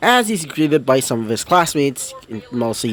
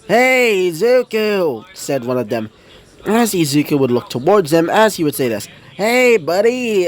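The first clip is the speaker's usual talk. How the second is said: lightly voiced higher, friendly schoolboy; friendly classmate; 5 semitones higher than usual. Classmate inviting Izuku on a trip, lightly higher. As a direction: invite him along casually.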